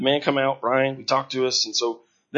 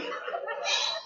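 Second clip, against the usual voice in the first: emotional sigh; 8 dB quieter than usual. Real, not acted. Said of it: "I'm just standing there crying".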